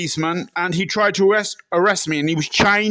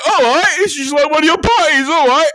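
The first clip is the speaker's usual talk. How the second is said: high, loud, repeated catchphrase; Michael Barrymore; 8 semitones higher, 5 dB louder than usual. Acted. Impressionist pestering a tall stranger, high-pitched entertainer impression. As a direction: call it out high and bouncy. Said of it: "I said".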